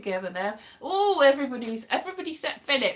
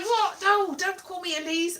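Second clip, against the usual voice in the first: higher-pitched startled protest; mock alarm; 6 semitones higher than usual. Reacting to being addressed by name, mock-alarmed protest. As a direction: act out being caught off guard by your name. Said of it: "somebody's gonna tell me off".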